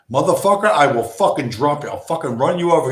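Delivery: scare him off your car; mock hostile threat. Acting out own threat to crackhead.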